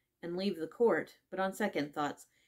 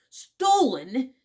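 loud, high outburst; exclaimed; 7 semitones higher, 10 dB louder than usual. A narrator's reading. King turns to the jury with his discovery, exclaiming. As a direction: cry it out as a sudden accusation. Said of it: "the king exclaimed".

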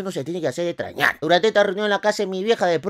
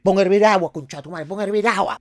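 abuela valiente mandando; 3 semitones higher than usual. Acted. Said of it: "la valiente".

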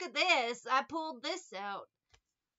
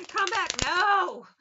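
mock exchange; 6 semitones higher, 12 dB louder, slower than usual. Acting both sides, loud.

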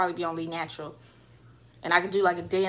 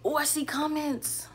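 whispering; 7 semitones higher than usual. Real, not acted. Noticing comments on a live stream.

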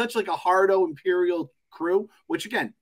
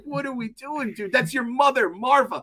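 mock furious yell; 8 semitones higher than usual. Host mock-yelling at a character on screen. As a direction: yell it like you're shouting at the screen. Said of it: "I'm like".

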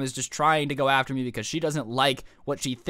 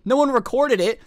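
much higher and louder, slamming "No one recorded it."; indignant outburst; 9 semitones higher, 6 dB louder than usual. Retold or imitated. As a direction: hit "one" hard, outraged at the dean. Retold arguing with the dean.

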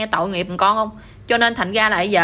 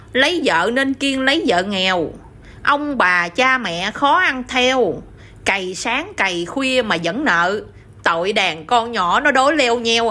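measured, slow verse delivery; slow poem recital; slower than usual. Acted. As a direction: recite each verse line slowly and evenly. Son answers father in verse.

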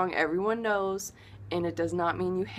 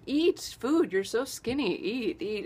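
insistent urging; 3 semitones higher than usual. Retold or imitated. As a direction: urge them to eat, playfully nagging. Relatives pushing food on her.

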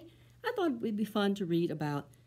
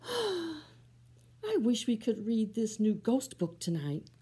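wistful sigh; 3 semitones higher, slower than usual. Acted. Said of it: "one monkey sighs".

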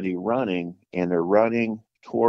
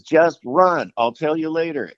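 raised, louder imitation of urgency; retold serious urging; 8 semitones higher, 5 dB louder than usual. Red-faced friend hurrying his hunting partner, mildly acted urgency. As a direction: brush off the question and urge flight. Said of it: "really serious".

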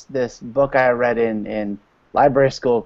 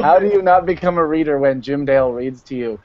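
laughing; 2 semitones higher than usual. Real, not acted. Laughing while praising Jim Dale.

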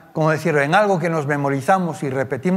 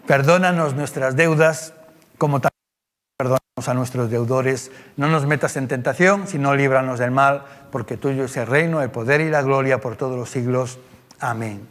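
prayer recitation; 3 semitones lower than usual. Acted.

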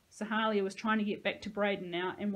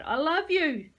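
loud, high anguished scream; desperate scream; 8 semitones higher, 9 dB louder, slower than usual. A narrator's reading. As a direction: scream for him from outside. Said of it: "Sahalia was screaming".

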